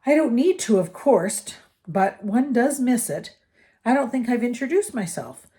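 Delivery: lingering over his long hunger; lightly voiced old ghost. A narrator's reading. The ghost introduces himself.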